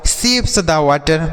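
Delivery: slow, clear question; slow example. Shown as a demonstration. Teacher slowly models the question for children. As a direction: draw the question out. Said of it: "जैसे".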